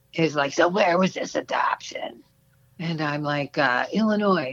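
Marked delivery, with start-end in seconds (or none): 0.6-2.3 gruff, rough, uninspiring voice lacking confidence. Speaker retells phoning about an ad; imitating the man's rough, unconfident voice. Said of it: "this really rough, not at all inspiring confidence voice".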